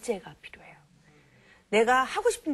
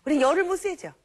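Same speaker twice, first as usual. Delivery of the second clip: emphatic; 8 semitones higher, 6 dB louder, faster than usual. Real, not acted. Lecturer rises in emphasis.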